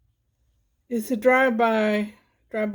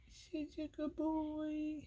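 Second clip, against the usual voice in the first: hushed; 5 semitones higher, 15 dB quieter, slower than usual. Real, not acted. Softer repeat to cat.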